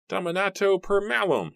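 high-pitched furious spell; wild, high cry of rage; screamed incantation. A narrator's reading. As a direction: scream out the curse. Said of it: "he screamed".

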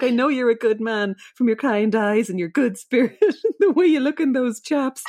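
mock heartfelt southern pleading. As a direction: plead with him, breaking into laughter. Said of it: "pleads with him".

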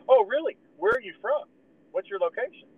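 high, eager prying questions; nosy Aaron imitation. Mocking Aaron grilling a podcast guest, high and eager. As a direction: squeak out nosy questions like a too-keen interviewer. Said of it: "Aaron's gonna be like".

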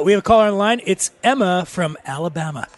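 lightly voiced call-in show host; mock radio host. Co-host sets up her accent test, mock radio host. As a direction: introduce a caller like a radio host.

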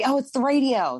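high, bright imitation of girlfriend. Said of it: "she was like".

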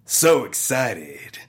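slow, low sultry read; sexy voice. Pretend. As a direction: purr it out slowly like a sultry narrator. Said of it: "In your sexy voice".

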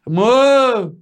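high, drawn-out holler; mock yelling. Husband pranking his wife by calling her from afar, drawn-out yell. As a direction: shout for a partner in another room. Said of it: "Começou a gritar".

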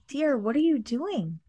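lightly voiced fussing mother; a hint of a worried mom calling. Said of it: "Full mom voice".

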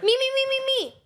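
high, eager volunteering. Real, not acted.

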